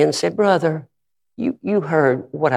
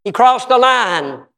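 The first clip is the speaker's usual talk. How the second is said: imitating sobbing wife; 7 semitones higher than usual. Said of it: "She was sobbing".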